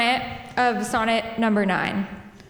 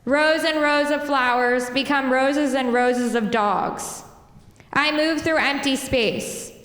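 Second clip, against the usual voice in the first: measured, even poem reading voice; poetry reading. Acted. Poet reading her poem to the crowd, measured. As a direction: read each line as its own image.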